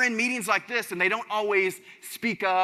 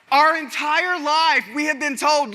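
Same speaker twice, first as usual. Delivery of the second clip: drawn out, high and loud, each word stretched; slow emphatic build; 8 semitones higher, 7 dB louder, slower than usual. Shown as a demonstration. Speaker to the crowd, drawing out a big point slowly and loudly. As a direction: stretch it out and lean on every word. Hammering home a lifelong lesson.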